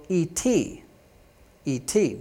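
"E T" said slowly as two letter sounds; Hebrew iti. Shown as a demonstration. Teacher spelling out the Hebrew sounds to students slowly. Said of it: "E T is how you pronounce it".

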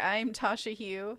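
talking between sips; drinking while talking. Real, not acted. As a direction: speak right after a sip. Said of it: "Sorry, I'm drinking my gamer juice".

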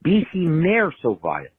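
grand theatrical speech delivery; Shakespeare recitation. Pretend. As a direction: declaim it like a stage actor. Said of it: "allow me to quote the Saint Crispin's Day speech".

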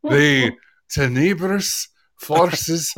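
slow spooky storyteller voice; mock ominous. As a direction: lay it on thick, slowly. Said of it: "The who what?".

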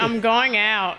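imitating an Australian speaker's accent. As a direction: quote an Aussie in a put-on Australian accent. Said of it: "I repeat anything they say".

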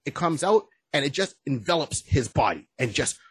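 ordinary delivery

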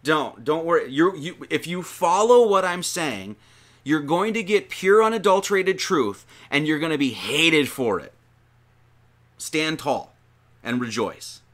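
Jesus reassuring. Retold or imitated. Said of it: "Jesus is saying".

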